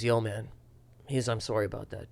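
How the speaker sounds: low, soft imitated heckler; quiet apology. Heckler approaching comic in the hallway, quiet apology. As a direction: offer a hushed, sheepish sorry.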